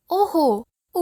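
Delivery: brightly. Acted.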